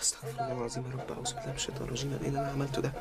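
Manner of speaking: soft, quick prayer for forgiveness; remorseful muttering. Acted. Husband regretting the divorce, softly praying. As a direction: mutter it under your breath in dismay.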